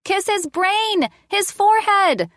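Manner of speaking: put-on high-pitched bossy little girl; child calling orders. A narrator's reading. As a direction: call out the rules of the game. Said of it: "called out orders to me".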